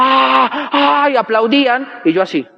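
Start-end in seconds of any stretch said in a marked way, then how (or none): 0.0-1.1 crowd cheer. Retold or imitated. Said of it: "y la gente comenzaba".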